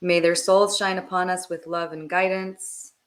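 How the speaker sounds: steady, measured blessing with pauses; meditative prayer. Real, not acted. Guide asks blessing for departed souls, calm prayerful delivery. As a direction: pray evenly, phrase by phrase.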